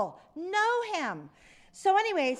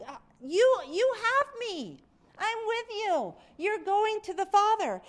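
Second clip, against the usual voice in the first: reassuring Jesus; 5 semitones higher than usual. Acted. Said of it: "So he reassures them".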